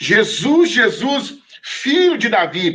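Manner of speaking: play-acted, high, calling-out shout. Retelling the story of the blind man calling out to Jesus, acting out his shouting. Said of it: "o cego continua a gritar".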